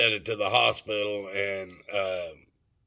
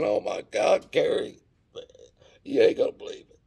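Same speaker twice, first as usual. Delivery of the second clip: acting panicked; 7 semitones higher than usual. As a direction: keep the staged dread going, then drop to a hush. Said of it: "I'm acting panicked as hell".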